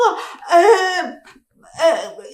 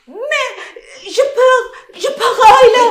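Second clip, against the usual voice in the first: scared; 4 semitones higher than usual. Acted. Admits fear, laughing-crying.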